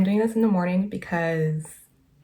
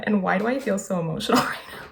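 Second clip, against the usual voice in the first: laughing, overwhelmed; faster than usual. Real, not acted. Emotional reaction, laughing.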